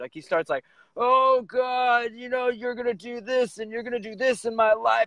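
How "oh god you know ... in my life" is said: high, tearful, weeping, pleading preacher voice. Retelling a preacher's words from the stage, imitating a preacher crying. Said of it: "crying while he's on stage".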